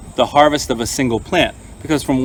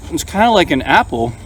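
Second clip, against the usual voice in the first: chewing through the words; mouth full; 2 semitones higher than usual. Real, not acted. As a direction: talk with a mouthful. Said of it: "Don't talk with your mouth full".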